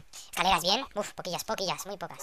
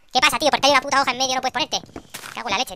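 higher, much louder furious yell; angry shout; 6 semitones higher, 13 dB louder than usual. Real, not acted. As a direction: yell at the game in rage. Furious at a leaf in the way.

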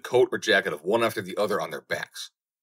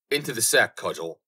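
cried command; 3 semitones higher than usual. Acted. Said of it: "So he cried".

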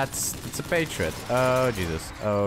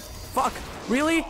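exasperated squeal; 12 semitones higher than usual. Real, not acted. Outraged at his shotgun.

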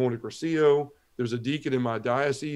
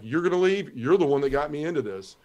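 mad retort; 3 semitones higher than usual. Retold or imitated. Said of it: "I was so mad".

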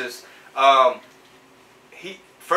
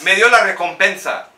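loud, quick plug for the lawyer; hyped-up Spanish testimonial; insurance commercial testimonial; 3 semitones higher, 5 dB louder than usual. Pretend. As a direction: punch the lawyer's nickname in a mock ad. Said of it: "we need to do your insurance commercial".

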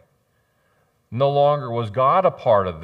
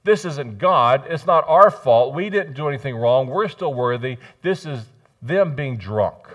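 self-justifying excuse; 2 semitones higher, 4 dB louder than usual. Acted. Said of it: "so that we don't have to take blame".

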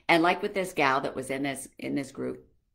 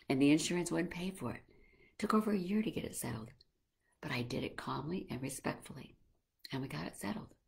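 softer, calm and respectful retelling; calm voice demo; 4 dB quieter than usual. Shown as a demonstration. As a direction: explain it gently, like to a clerk. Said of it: "tell them what happened in a calm voice".

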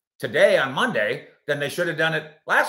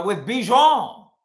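put-on French accent; 7 semitones higher, 7 dB louder, much slower than usual. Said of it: "Same thing".

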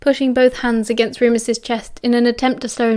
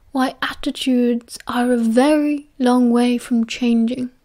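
a lightly voiced old wizard explaining patiently; Dumbledore's voice; slower than usual.

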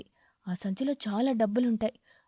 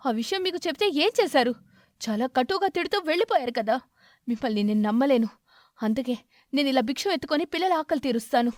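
louder, defiant mother; shouting back; 3 semitones higher, 4 dB louder than usual. Acted. Sparrow shouting back at her husband for her children. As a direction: stand up to him, loud and firm. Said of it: "కాకి పిచ్చుక అలా అరుస్తూ".

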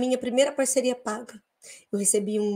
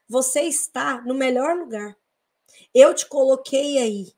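calm divine voice; slower than usual. Retold or imitated. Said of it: "a voz ainda disse o seguinte".

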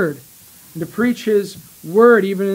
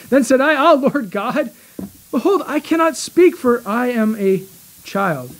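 pleading Jeremiah; 5 semitones higher than usual. Acted. Jeremiah's protest read from scripture.

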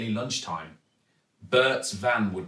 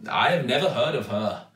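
doubtful Raj. A narrator's reading. Raj doubts the superhero, politely unconvinced. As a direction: sound unconvinced but polite. Raj's character voice.

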